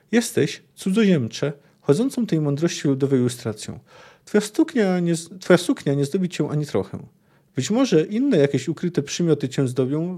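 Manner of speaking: measured reading of a fantasy novel passage; calm storyteller reading aloud; story narration. A narrator's reading. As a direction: read it like an audiobook narrator. Reads Witcher passage aloud.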